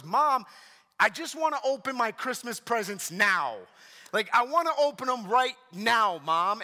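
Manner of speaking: lightly imitated whiny little girl; a hint of pleading, insistent whine; whining child. Daughter in the van begging mom for presents, mock whine. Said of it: "And she kept whining".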